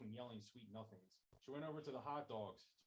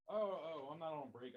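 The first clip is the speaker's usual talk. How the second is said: startled candid reply; 5 semitones higher, 8 dB louder than usual. Acted. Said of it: "I say candidly".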